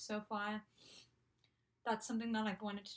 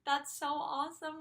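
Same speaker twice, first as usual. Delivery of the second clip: high, gushing imitation of delight; retold excitement; 7 semitones higher than usual. Idol reacting to her fan's studies, imitated excitement. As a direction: gush it in a raised pitch. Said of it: "threw her head back and was like".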